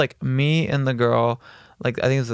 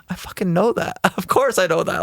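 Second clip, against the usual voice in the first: retold protest, higher and laughing; indignant agreement; 6 semitones higher than usual. Man answering his date's needless reassurance, mock indignant. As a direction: insist on the obvious with amused, high-pitched exasperation.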